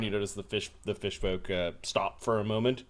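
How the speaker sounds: normal talking voice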